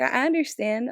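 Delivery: retold big-sister empathy; big-sister sympathy. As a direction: re-enact a mentor who relates. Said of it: "like, big sister role".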